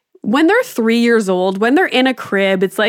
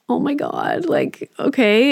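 relieved gasp; 5 semitones higher, slower than usual. Retold or imitated. Relief as son stops crying.

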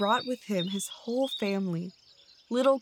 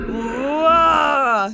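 long, loud, raised roar; bear's roar; 4 semitones higher, 10 dB louder than usual. A narrator's reading. Bear hurling out the badgers, roaring. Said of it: "he roared".

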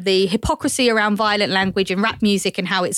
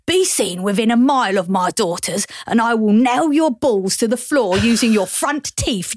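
a light tough-guy action hero voice, slowing to a threat; hammed-up movie hard man, mild; half-hearted gangster threat from an action film; Jason Statham. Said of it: "so I just did Jason Statham instead".

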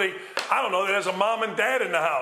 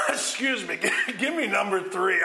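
talking through real laughter; laughing. Real, not acted. Host laughing at himself after a rant, still chuckling. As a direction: chuckle out the words after getting fired up. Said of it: "I got excited there".

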